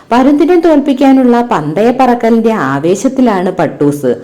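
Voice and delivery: put-on lively storybook narration for children; ഉത്സാഹത്തോടെ കഥ വായിക്കുന്നു; story reading. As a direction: read the kite tale expressively to pupils.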